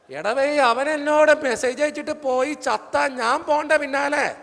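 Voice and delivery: loud, fed-up exclamation; exasperated outburst. Real, not acted. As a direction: blurt it out loudly in exasperation. Exasperated outburst about suicide threat.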